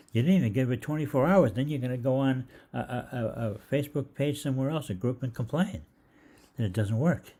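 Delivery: high-pitched mock rant, loud at the start; acting out fed-up disbelief at a complainer; exasperated scolding. Scolding impatient customers, acted.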